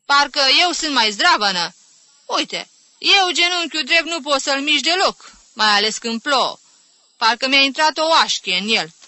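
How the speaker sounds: loud, high, indignant grumbling; cross, snappish complaint. Acted. Aunt rebuking the whiner with her own bad knee, snappish. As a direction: outdo her ailments with your own, crossly. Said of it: "se răsti tanti Caterina".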